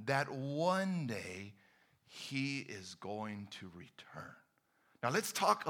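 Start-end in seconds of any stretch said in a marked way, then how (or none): 0.1-4.3 fading into a whisper; soft secret whisper; hushed reveal. Acted. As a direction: whisper the promise. Preacher drops to hush.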